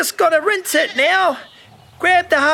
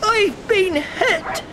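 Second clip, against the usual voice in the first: pirate captain; 4 semitones higher than usual. Pretend. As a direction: pretend pirate, high and hammy. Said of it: "Captain Charlie".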